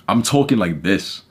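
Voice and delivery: slow, deliberate delivery; making a point. Shown as a demonstration. Coach showing his YouTube voice, slow and emphatic. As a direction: land each word to make the point. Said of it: "when I'm making a point".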